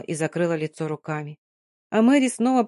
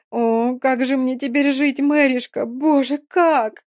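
put-on grieving girl, despair peaking to a cry; 4 semitones higher than usual. Dina's despair peaks.

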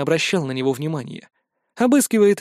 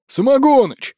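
high croaking call of the name, louder; croaked name; 8 semitones higher, 5 dB louder, slower than usual. A narrator's reading. Gnome greeting a friend with a croaking call. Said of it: "прокаркал Мухомор".

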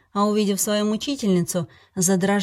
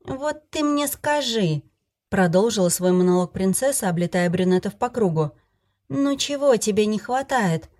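tipsy fairy voice; 3 semitones higher than usual. Acted. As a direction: play the drunk fairy, elated. Fairy monologue voice.

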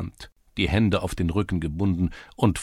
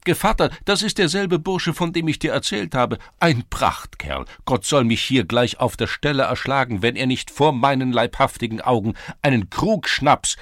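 eager praise; 6 semitones higher, 6 dB louder than usual. A narrator's reading. Czerewik praises Gritzko.

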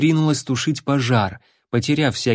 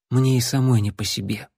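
joyless. Acted. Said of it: "безрадостно вымолвила принцесса".

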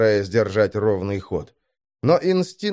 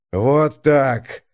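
hearty, forceful call; approving shout. A narrator's reading. Commander watching the dials approves, calling out. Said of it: "выкрикнул мрак".

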